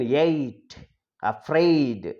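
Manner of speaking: "eight" and "afraid" with a stretched vowel glide; model pronunciation. Shown as a demonstration. Teacher modelling words for students, "eight", "afraid" drawn out. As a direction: hold the diphthong in "eight" and "afraid". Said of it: "like that we have to pronounce".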